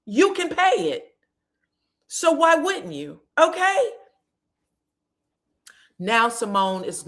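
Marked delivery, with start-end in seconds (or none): 0.1-3.9 high, pushy mock voice of the son. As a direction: sneer it up high like a bratty son. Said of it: "lousy ass son of hers says".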